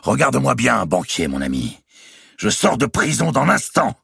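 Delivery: exclaiming loudly. A narrator's reading. Robert announces his release to the banker, exclaiming loudly. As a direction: crow it out triumphantly. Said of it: "s'écria-t-il".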